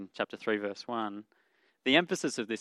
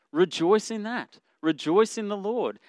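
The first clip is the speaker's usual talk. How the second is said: higher, urgent call to rejoice; fervent preacher's exhortation; rising exhortation; 7 semitones higher, 4 dB louder than usual. Real, not acted. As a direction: lift the voice and urge them on.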